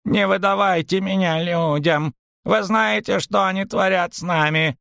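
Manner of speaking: high-pitched, frightened plea; pleading creature, pitched well up; desperate pleading. A narrator's reading. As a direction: beg not to be handed over, voice high. Doppler begs for mercy.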